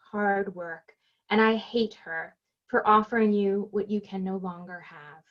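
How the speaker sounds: even, measured recital of a personal poem; restrained poet's cadence, falling away at the close; poem reading. Acted. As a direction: read it as verse, pausing between phrases. Reads own poem aloud.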